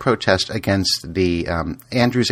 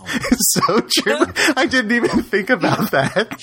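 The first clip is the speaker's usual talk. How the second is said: laughing; 12 semitones higher, slower than usual. Real, not acted. Laughing at the whale joke.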